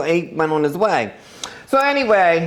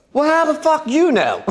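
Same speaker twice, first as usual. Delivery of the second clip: laughing through a high comeback; laughing while she snaps back, pitched high; 9 semitones higher than usual. Real, not acted. Telling her friend the story, laughing through the quote.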